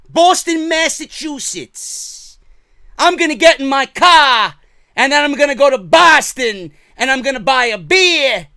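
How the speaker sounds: loud, high-pitched mock Boston accent; over-the-top Boston accent, shouted; terrible Boston accent. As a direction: belt out a hammed-up Boston accent. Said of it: "Terrible Boston accent".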